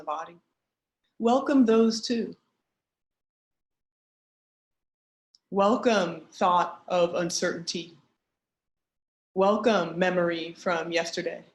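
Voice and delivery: measured meditation guide with long pauses; guided meditation. Acted. Teacher guiding an online group through a grounding practice, guided meditation. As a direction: lead them gently inward, pausing between instructions.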